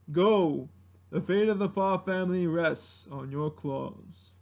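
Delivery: grave, softened elder; first ancestor. Acted. Ancestor sending dragon to fetch Mulan, grave impersonation. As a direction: hand down the charge solemnly. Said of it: "and the first ancestor from Mulan".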